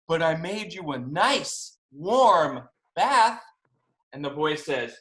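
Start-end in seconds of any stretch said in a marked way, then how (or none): 0.1-3.4 coaxing octopus. Acted. Octopus cheering up his friend.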